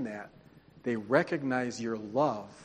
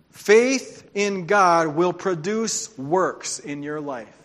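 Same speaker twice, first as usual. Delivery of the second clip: loud, slow and weighty, each word stretched; slow preached emphasis; 2 semitones higher, 4 dB louder, much slower than usual. Acted. Preacher driving the point home, slow and loud. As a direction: lean hard on every word.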